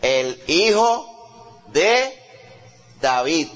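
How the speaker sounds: long drawn-out rising awe; awed recognition. Retold or imitated. Woman recognizing Jesus, slow drawn-out awe. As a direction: stretch it out in wonder, slowly. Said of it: "mire cómo le dice".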